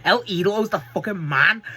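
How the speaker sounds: high, loud fan's cheer breaking into a laugh; excited cheer. Retold or imitated. Fan cheering his favourite wrestler, loud and excited. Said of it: "I'm like".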